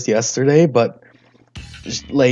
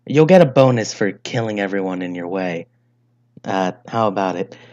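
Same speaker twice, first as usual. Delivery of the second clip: lightly voiced mob boss giving a job; a hint of a crime family fixer.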